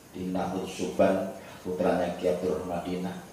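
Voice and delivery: soft, low tired voice. Real, not acted. Exhausted preacher admits he has not eaten, soft and low. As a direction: let the fatigue sag through every word. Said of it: "Karena capek tuh".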